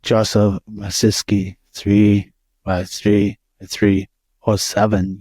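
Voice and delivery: put-on slow, menacing German accent. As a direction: read it slowly as a German killer. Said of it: "in his best German murderer accent".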